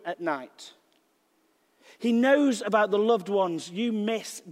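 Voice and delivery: slow, measured pastoral delivery; devotional preaching. Acted. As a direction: speak comfort slowly, pausing between phrases. Opens with slow devotional preaching and psalms.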